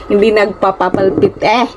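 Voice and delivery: "nagpapapalpit-" fumbled and cut short with an "eh"; tongue-tied. Real, not acted. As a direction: stumble on "nagpapapalpit-" and break off. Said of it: "Nabubulol ako".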